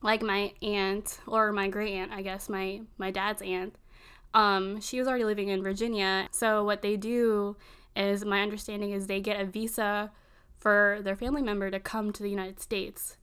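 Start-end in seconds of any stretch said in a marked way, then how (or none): none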